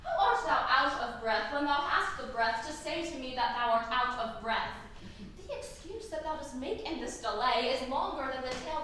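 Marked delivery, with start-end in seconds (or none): 0.0-4.7 amused, teasing retort with a laugh in it; laughing disbelief. Acted. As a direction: poke fun at her excuse, half-laughing. Juliet mocks nurse's excuse.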